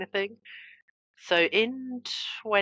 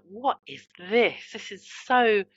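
alarmed inner voice; 3 semitones higher, slower than usual. Retold or imitated. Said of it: "My brain was like".

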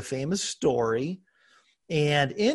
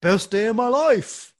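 high, slow, over-bright "best day" voice; fake cheerful person; 8 semitones higher, 5 dB louder than usual. Friend asked about his day, answering in hammed-up fake cheer. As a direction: ham up the forced cheer. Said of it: "you know the one who's like".

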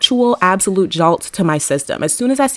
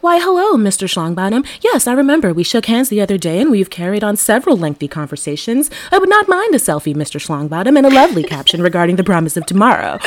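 mock polite gentleman. Mock polite greeting to schlong.

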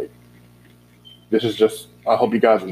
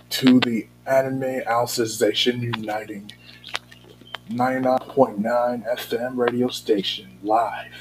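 radio DJ impression; 2 semitones higher than usual. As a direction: announce it like a late-night radio DJ. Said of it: "this is my impression of doing".

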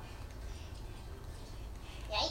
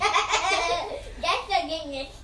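laughing; much slower than usual. Acted. Slowed teasing with laugh.

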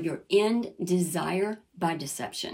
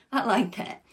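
laughing; 2 semitones higher than usual. Real, not acted.

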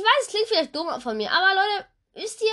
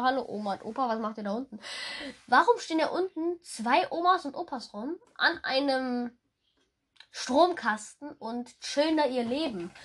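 quiet aside; 3 semitones lower, 6 dB quieter than usual. Real, not acted. Spots old people below.

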